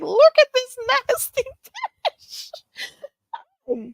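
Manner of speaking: high, laughing mock disgust. Streamer laughing at a viewer's nasty camera antics. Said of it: "I'm like".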